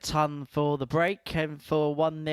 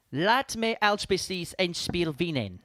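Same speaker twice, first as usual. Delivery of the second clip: put-on Dutch accent; 2 semitones higher than usual. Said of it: "the accent might have been a bit off".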